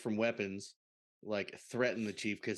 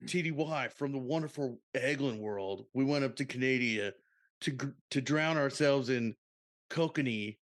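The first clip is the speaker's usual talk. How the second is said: Crush voice; 3 semitones higher than usual. Acted. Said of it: "You sound like Crush right now".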